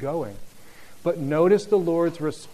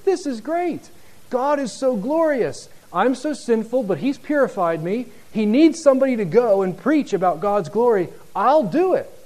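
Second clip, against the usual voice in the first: much higher, eager volunteer voice; eager Isaiah; 8 semitones higher, 8 dB louder than usual. Retold or imitated. Isaiah eagerly volunteering before God, high and bright. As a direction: bounce in, ready to go. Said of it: "Isaiah is saying".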